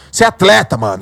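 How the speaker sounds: yelling at himself to wake up; self pep talk. Retold or imitated. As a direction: fire yourself up.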